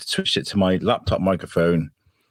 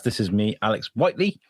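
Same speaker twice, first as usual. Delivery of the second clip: strange intro. Real, not acted. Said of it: "That was a strange way for you to say that".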